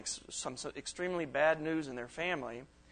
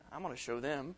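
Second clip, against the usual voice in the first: soft, muttered threat under the breath; vengeful thought; 2 semitones lower, 6 dB quieter than usual. Retold or imitated. Speaker voicing a grudge-holder, soft muttered threat. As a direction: plot revenge quietly.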